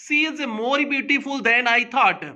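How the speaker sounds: very slowly, word by word; slow dictation. Shown as a demonstration. Teacher reading an example sentence to students, slow and deliberate. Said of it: "इस वाक्य को समझने की कोशिश करना".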